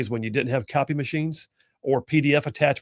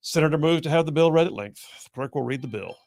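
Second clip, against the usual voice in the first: lightly voiced chair's procedural monotone; presiding officer. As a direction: restate the motion evenly, like a formality. Acting out the presiding officer's reply.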